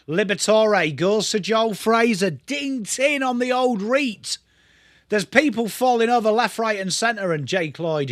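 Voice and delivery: a hint of a TV footy caller; light mock commentary. Streamer calls the play for viewers, lightly voiced commentary. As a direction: narrate the passage of play like a broadcaster.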